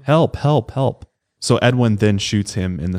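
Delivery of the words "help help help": high, restrained imitation of yelling; mock yell for help. Man continues calling despite the threat, in a mock yell. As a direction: pitch up a retold cry for help. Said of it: "starts yelling for help".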